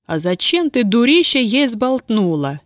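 put-on a bound girl crying out in anger; full-voiced yell. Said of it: "в голос завопила Устинья". (сорвавшись, кричит на подругу)

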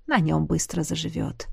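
тихое медленное бормотание себе под нос; пробормочи, успокаивая себя; бормоча. Acted. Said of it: "пробормотала Шейра". (Шейра бормочет, глядя на раненого Джафа)

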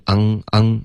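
昂 with a back-nasal ng. Retold or imitated. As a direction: imitate the mistake, 昂 ending in the back of the nose. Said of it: "这是一个后鼻音". (“昂”读成后鼻音)

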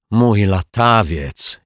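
slow, drawn-out mild moan.

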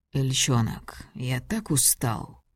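weary, breathy murmur; tired whisper. Acted. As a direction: whisper it, worn out. Tired husband at day's end.

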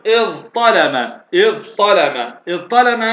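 اضطلم as iẓ-ṭalama, ẓ then heavy ṭ; ta turned ṭa. Shown as a demonstration. Teacher drills the new example, heavy ṭ in اضطلم. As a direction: repeat اضطلم with both emphatic sounds distinct. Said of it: "وأبدلنا تاء طاء".

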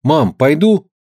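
put-on high timid boy's question; child asking. A narrator's reading. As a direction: ask mother hopefully. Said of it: "обратился Артёмка к матери".

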